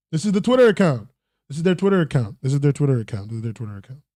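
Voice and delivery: repeated line winding down in pitch and volume; repeating, fading out. Pretend. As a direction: let each repeat sink further away. Repeats line, trailing away.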